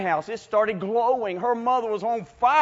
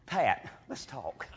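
coaxing hush; 9 semitones lower, 11 dB quieter, slower than usual. Retold or imitated. Coaxing little girl quietly.

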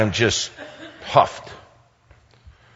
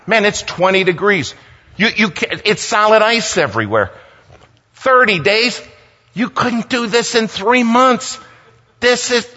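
exasperated rant; 10 semitones higher than usual. Retold or imitated. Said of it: "I lost it".

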